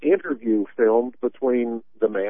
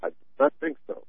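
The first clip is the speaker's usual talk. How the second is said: breathy sarcastic whisper; 11 semitones higher, 8 dB quieter than usual. Acted. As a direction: whisper it under your breath. Echoes partner's line, sarcastic aside.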